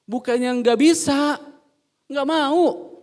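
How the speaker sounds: emphatic preaching. Real, not acted. Preacher to the congregation, loud slow emphasis. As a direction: hammer the point home from the pulpit. Preacher drives home the point.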